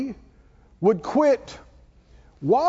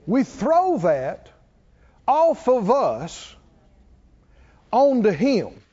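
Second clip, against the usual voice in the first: slow demonstrating; slower than usual. Shown as a demonstration. Pastor demonstrates throwing off burdens.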